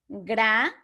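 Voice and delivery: "gra-na-da" in three separate beats; split into syllables. Shown as a demonstration. Teacher to class, splitting granada into syllables. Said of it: "Luego tenemos granada".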